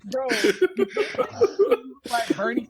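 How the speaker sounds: words broken by laughter; laughing. Real, not acted. Friend arguing about Mewtwo looking like Bernie, laughing. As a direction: protest while laughing.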